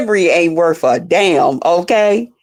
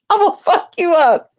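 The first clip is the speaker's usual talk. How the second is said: imitating a threat; 9 semitones higher than usual. Boyfriend threatening, acted.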